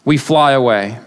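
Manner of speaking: measured, solemn psalm reading; lifted pulpit reading of the psalm; scripture reading. Acted. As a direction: read the psalm with reverence. Reads psalm verses aloud.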